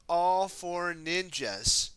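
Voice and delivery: slow, drawn-out loud yell; team yell. Acted. The ninjas yelling together as one, slow yell. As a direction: call it out together slowly. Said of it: "they yelled".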